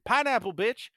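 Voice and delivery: high shrieked safeword; shouting. Retold or imitated. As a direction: yell it out loud. Safeword scream example.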